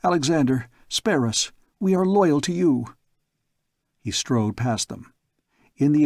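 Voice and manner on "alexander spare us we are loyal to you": cringing plea. Acted. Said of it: "fell cringing before him".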